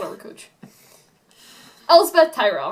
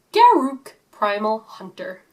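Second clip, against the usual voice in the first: unplanned Southern drawl, slowing down; Southern accent; 5 dB louder, slower than usual. Real, not acted. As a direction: slip into a strong Southern accent. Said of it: "I just went real southern there".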